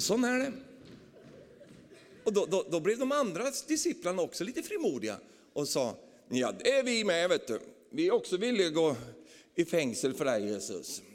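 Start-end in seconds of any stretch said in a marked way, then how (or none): 6.3-11.0 eager disciples. Acted. Disciples eagerly volunteering, acted.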